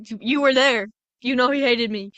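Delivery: loud, heated comeback; indignant retort. Retold or imitated. Elphaba firing back at her sister, indignant and loud. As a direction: throw it back at her, stung.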